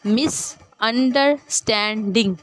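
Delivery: "मिसअंडरस्टैंडिंग" slowly as मिस, अंडर, स्टैं, डिंग; divided syllables. Shown as a demonstration. Teacher showing word parts, "मिसअंडरस्टैंडिंग" broken into slow pieces. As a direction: pause between each part of "मिसअंडरस्टैंडिंग". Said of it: "parts divide हो रहे हैं".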